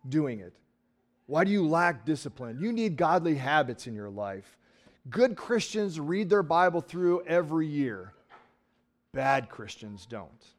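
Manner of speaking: slow, mock stern preacher; scolding preacher. Preacher mimicking a sermon that scolds lazy Christians, mock stern. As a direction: lecture them about their duty. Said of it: "they say something like".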